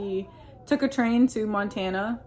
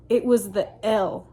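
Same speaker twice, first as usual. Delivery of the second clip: creepy demonic voice. Retold or imitated. Husband staring at her in bed, lightly voiced creepy demon. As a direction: say it like something possessed is speaking through him. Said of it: "like, demonic voice".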